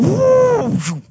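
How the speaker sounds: high, loud whoop as the coaster drops; thrilled whoop. Retold or imitated. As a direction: let out a big rollercoaster woo. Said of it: "you're going".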